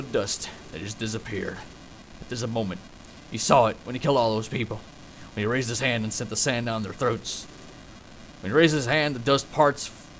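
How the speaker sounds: put-on understated Western narrator accent; American Western accent. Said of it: "why am I doing an American accent".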